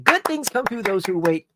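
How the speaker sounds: a light hint of a tough action hero; Steven Seagal. Shown as a demonstration. Retrying the saying for viewers as a light action-hero impression. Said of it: "Just like Steven Seagal in Out for Justice".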